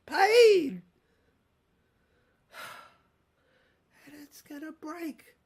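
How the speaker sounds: high, loud, unhinged tycoon rant; a shrill, loud madman's tirade; ranting villain. Acted. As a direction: rave like a cornered mogul losing his grip. Raving villain monologue.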